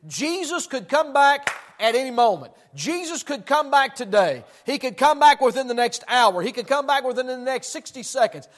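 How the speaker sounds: lightly voiced apostle at the pulpit; urgent preaching, each warning driven home; Paul preaching. Imagining Paul warning the church of Jesus' return, preaching urgently. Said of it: "I can hear Paul now as he's preaching".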